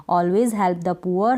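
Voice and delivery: very slow, each word set apart; slow dictation. Shown as a demonstration. Teacher dictating an English sentence to learners, very slow. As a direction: spell it out slowly for students.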